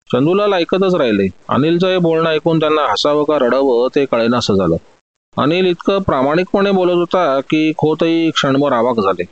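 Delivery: usual speaking voice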